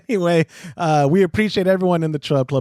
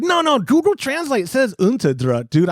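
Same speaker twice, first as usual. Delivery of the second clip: high, insistent retold protest; 7 semitones higher than usual. Host retelling his argument with his friend, protesting. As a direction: push back in a higher voice. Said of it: "I was like".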